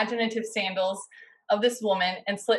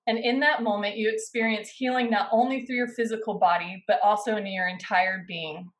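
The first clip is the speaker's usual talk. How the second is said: guided story narration. A narrator's reading. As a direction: invite them to imagine it as they listen, gently. Guided imaginative Bible retelling.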